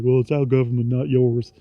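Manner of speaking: badly put-on American accent, quick and pushed; terrible American accent. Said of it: "that was a terrible accent".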